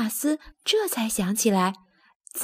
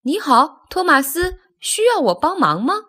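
cheery, higher-pitched greeting; smiling friendliness; 6 semitones higher, 5 dB louder than usual. A narrator's reading. Rosie offers Thomas help, smiling and friendly. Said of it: "他笑眯眯地说".

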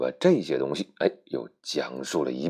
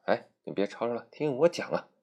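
Snow White; 7 semitones higher than usual. Acted. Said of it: "白雪公主说".

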